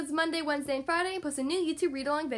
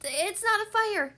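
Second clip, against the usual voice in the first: sniffing; 5 semitones higher, 3 dB louder, slower than usual. Acted. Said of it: "sniffs one little monkey".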